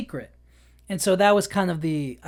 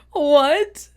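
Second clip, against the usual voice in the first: shocked what; 8 semitones higher, 7 dB louder than usual. Retold or imitated. Shocked recruit's reaction.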